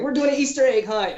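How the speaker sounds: high, loud chirpy boss voice; mock boss announcement. Mimicking bosses announcing fun, high mock cheer. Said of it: "And they're like".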